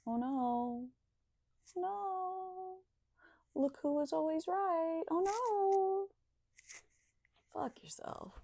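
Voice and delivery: high, sing-song taunting; high mocking taunt; mock gloating.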